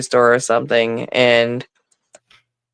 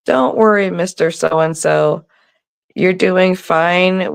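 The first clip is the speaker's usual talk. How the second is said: higher, drawn-out kindly reassurance; reassuring; 5 semitones higher than usual. Retold or imitated. Daughter tells a stranger not to worry, reassuring. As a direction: imitate a kind daughter soothing someone.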